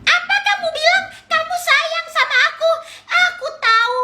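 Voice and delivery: high, laughing scoff; scoffing at the twin, laughing high; mocking laugh. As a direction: sneer at her words. Mocking disbelief.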